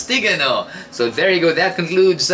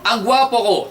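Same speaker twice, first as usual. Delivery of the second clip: mock shout; 8 semitones higher than usual. Shown as a demonstration. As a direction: pretend to shout on a mountain. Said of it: "Isigaw mo". (kunwaring sigaw sa bundok)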